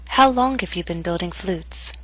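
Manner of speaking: "How long have you been building flutes?" falling to the end; falling intonation. Shown as a demonstration. Teacher models question to repeat, falling intonation. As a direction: step down in pitch to "flutes". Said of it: "practice intonation patterns and questions".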